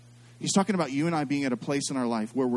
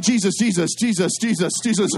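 mock frightened prayer; 5 semitones higher, 8 dB louder than usual. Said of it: "I'm like".

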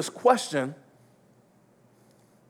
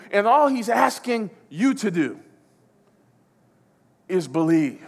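raised, emphatic preacher's delivery; impassioned preaching; 3 semitones higher, 6 dB louder than usual. Real, not acted. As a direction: drive it home to the congregation, phrase upon phrase. Preacher builds to climax.

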